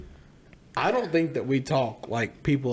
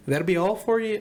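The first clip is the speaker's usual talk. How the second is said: higher-pitched mock North Dakota clerk; North Dakota accent; 5 semitones higher than usual. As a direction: mimic a Fargo cashier's accent. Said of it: "they're like".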